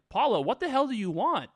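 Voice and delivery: acted-out fed-up confrontation; upset demand. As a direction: demand it in mock frustration. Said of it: "She gets reasonably upset".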